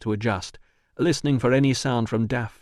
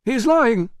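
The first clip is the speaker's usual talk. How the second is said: sharp high cry of denial; insistent outburst; 13 semitones higher, 7 dB louder than usual. Acted. Manager cries out to Russo, insistent and loud. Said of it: "insisted Priscus".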